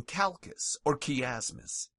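calcus and chiasmus starting on K. Shown as a demonstration. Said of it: "C H is pronounced as K".

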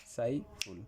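"সাইফুল" broken after সাই, as if timed to finger snaps; syllables on snap beats. Shown as a demonstration. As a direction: count out "সাইফুল" as two separate pulses. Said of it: "তুড়ি বাজাইলে হয়ে যায়".

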